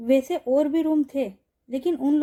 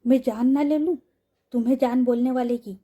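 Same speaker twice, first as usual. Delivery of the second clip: a touch of anger, slightly louder; mild angry threat; 3 dB louder than usual. Acted. Mahira pins Yashika to the wall, mildly angry. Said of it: "बोलती है गुस्से में".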